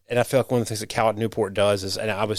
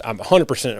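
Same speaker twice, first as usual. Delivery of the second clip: dry, mock-sincere claim; sarcastic; 3 dB louder than usual. Shown as a demonstration. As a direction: say it like you don't mean it. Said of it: "I'm being very sarcastic".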